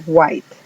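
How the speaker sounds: "guait" for white; English word white. Shown as a demonstration. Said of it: "La W suena como G". ("white" con la W como G)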